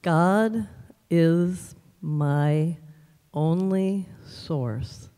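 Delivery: slow, word by word with pauses; deliberate mantra. Retold or imitated. Friend prescribing a daily mantra, slow and deliberate. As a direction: spell out each word slowly as a mantra. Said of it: "I want you to say".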